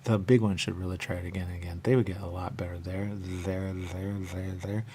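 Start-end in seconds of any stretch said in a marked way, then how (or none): 2.6-4.8 unvoiced whisper. Real, not acted. About the big store, a quiet whispered remark. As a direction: murmur it under your breath.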